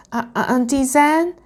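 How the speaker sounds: high, stammered, questioning call; anxious calling out. A narrator's reading. Dragonling calls his aunt as growling nears, anxious. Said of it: "Firion shouted".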